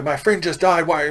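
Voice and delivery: put-on high, girlish protest voice; a high, hurt teenage girl voice; upset teen girl. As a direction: play the grieving girl snapping back at her uncle. Teen girl upset at her uncle.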